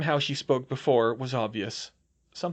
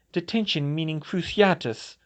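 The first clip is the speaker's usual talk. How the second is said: coldly; 5 semitones higher than usual. Acted. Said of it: "Daphne said coldly".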